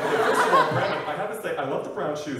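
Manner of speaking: lightly voiced fashion-mentor impression; Tim Gunn. Fashion mentor advising Brandon on shoes, lightly put-on voice. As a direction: offer critique in a slight character voice. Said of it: "Tim Gunn".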